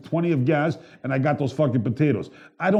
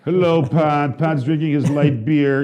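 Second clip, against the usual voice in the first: a hint of a slow put-on voice; odd put-on voice; 2 semitones higher, 5 dB louder, much slower than usual. Real, not acted. Host teasing the producer, in a lightly put-on slow voice. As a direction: drawl it out a little, slowly. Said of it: "I don't know why I'm talking like that".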